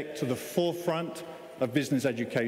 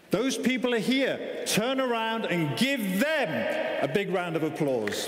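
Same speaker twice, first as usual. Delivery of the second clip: rousing announcement; 4 semitones higher than usual. Real, not acted. Asks graduates to applaud families.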